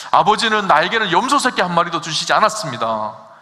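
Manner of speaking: loud, aggrieved protest from the elder son; the elder son protests to his father, loud and aggrieved; resentful complaint. Acted. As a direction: demand it like a wronged son. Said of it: "이렇게 묻잖아요".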